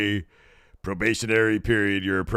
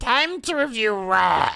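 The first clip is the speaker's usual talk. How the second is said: put-on little kid voice, pitched very high; 4 dB louder than usual. Previewing Raw, the host brings in a special guest speaking in a child voice. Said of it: "It is Child".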